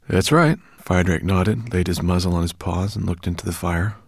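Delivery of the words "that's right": higher, louder dragon reply; calm dragon agreeing. Acted.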